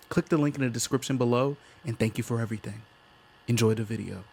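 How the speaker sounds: loud, measured announcer-like read; disclaimer read. Acted. Host reads show disclaimer and Patreon plug to viewers, announcer-like. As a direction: deliver the show's standard notice with projection.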